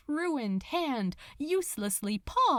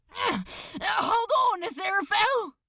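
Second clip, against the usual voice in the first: high, loud, straining call; gasped shout; 10 semitones higher, 3 dB louder than usual. Acted. Crowley gasps to Aziraphale while holding his weight, straining. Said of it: "he gasped".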